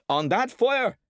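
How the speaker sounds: loud, high enraged shout; father flying into a rage; furious. A narrator's reading. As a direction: threaten the boy in a fury. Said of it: "The man jumped up furiously".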